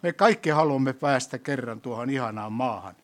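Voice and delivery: prayer. Acted. Leads closing prayer.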